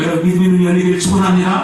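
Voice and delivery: loud, fast preaching blessing; preacher blessing the church at full force; fervent blessing. Real, not acted. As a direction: lift the congregation with a ringing blessing.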